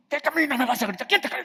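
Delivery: high, loud mock-aggressive retort; aggressive comeback. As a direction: snap back at the one insulting you. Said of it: "se ponen más agresivos".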